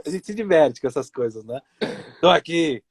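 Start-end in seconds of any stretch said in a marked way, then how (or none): 2.2-2.8 possessed demon voice. Retold or imitated. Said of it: "sabe aquela voz do demônio".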